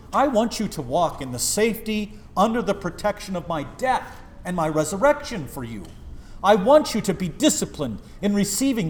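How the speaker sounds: preacher speaking as Jesus, earnest; voicing Jesus. Preacher voices Jesus urging his flock, earnest.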